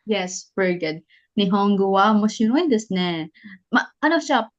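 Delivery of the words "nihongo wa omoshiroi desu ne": "desu ne" falling at the end; falling intonation. Shown as a demonstration. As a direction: let "desu ne" drop down at the close. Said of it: "Falling intonation na tong desu ne". (pababang tono sa "desu ne")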